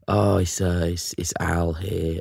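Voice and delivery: phone the boss sick, faintly Phil Mitchell Cockney; Cockney sick caller. Acted. Employee rings his boss to call in sick, mild put-on Cockney. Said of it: "got this Phil Mitchell Cockney accent".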